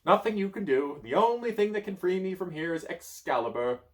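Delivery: high, loud; gloomy wizard. Acted. Merlin telling the child, high and loud. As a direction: state it flatly hopeless.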